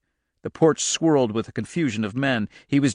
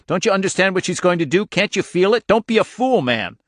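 urgent; 7 semitones higher, 3 dB louder than usual. A narrator's reading. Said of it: "he shouted at Al".

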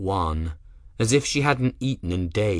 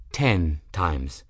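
gentle correction; 4 semitones lower than usual. Acted. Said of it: "Benedict interjected gently".

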